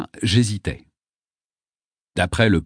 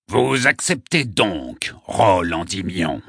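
put-on slow, solemn old poet; grave and resonant; slower than usual. A narrator's reading. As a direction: draw out the question with ringing gravity. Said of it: "d'une voix grave et sonore".

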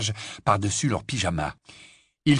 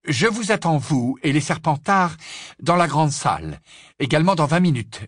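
higher-pitched firm command; stern professor, resolute; 5 semitones higher than usual. Acted. Professor giving Slughorn his orders, stern and resolute. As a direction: lay down orders with authority.

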